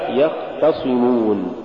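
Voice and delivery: يختصمون with moderate khaa and a light T; correct khaa. Shown as a demonstration. Tajweed teacher giving the example, correct khaa. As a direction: keep the T of يختصمون thin. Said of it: "والصواب".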